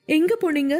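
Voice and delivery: high-pitched, acted crying complaint; hurt, weepy voice pitched well up; tearful reproach. A narrator's reading. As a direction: plead and accuse as if through tears. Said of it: "அழுது கொண்டே".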